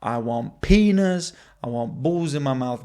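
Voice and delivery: loud, drawn-out blurt; slow hammed-up crude yell; mock demand. Stand-up bit, crude mock demand.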